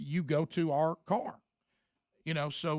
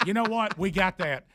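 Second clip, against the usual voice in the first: louder, mock fed-up; mock exasperation; 3 semitones higher, 6 dB louder than usual. Telling the guard off in jest, mock exasperated and louder. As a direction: lay it on the guard, half joking.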